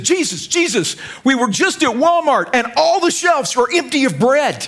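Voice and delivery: high, anxious reporting; worried disciples. Retold or imitated. Disciples alarmed about empty Walmart shelves, high. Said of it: "His disciples came into him and said".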